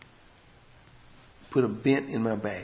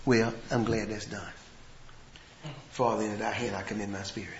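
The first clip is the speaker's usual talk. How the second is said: wrong way; 5 semitones lower, 7 dB quieter than usual. Shown as a demonstration. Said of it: "he did not say".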